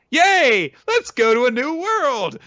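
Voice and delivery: loud, very high squeal of glee; tiny excited sprite voice, belted out; cheering fairies. Acted. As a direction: cheer in a squeaky fairy falsetto.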